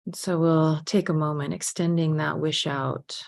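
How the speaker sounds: unhurried meditation guide, with long pauses; guided meditation. Real, not acted. Teacher leading a group to remember being helped, unhurried guided meditation. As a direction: gently lead the reflection, leaving space between phrases.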